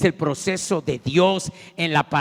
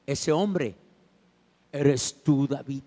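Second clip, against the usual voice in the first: quiet accusation; 4 semitones lower, 6 dB quieter, slower than usual. Acted. Natán accuses David quietly.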